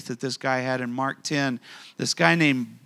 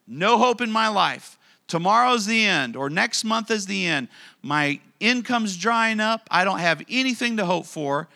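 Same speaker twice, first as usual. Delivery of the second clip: louder, higher cry of hopelessness; voicing despair; 3 semitones higher, 4 dB louder than usual. Preacher voicing a widow's hopeless mindset, emphatic despair. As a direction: declare it like all hope is gone.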